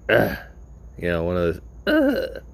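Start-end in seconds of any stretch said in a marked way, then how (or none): 0.1-0.4 a quick, understated ugh of disgust; just a small disgusted grunt; mild disgusted ugh. Retold or imitated. The old lady reacting to the smoker, mild disgusted grunt. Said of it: "And she's like". 1.9-2.4 Ugh squeezed out much higher in mock disgust. Shown as a demonstration. Showing how the old lady groaned at him, high mock-disgusted Ugh. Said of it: "kinda disgusted".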